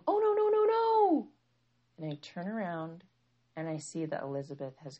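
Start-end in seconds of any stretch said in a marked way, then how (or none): 0.1-1.3 high, loud string of dismayed no's; alarmed outcry. Retold or imitated. Son seeing the syrup being dumped, alarmed outcry. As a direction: call out in rising panic, imitating a child.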